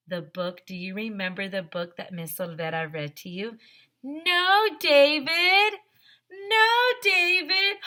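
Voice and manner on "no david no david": high, loud "No, David" scold; a hammed-up scolding parent; mock scolding mom. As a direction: shout it like the exasperated mother in the book. Teacher voices David book's mom.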